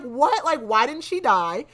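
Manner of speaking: loud, high-pitched indignant retelling; acted-out anger. Storyteller voicing Kaltain's outrage that the plan failed, pissed. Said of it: "Kaltain is pissed 'cause she's like".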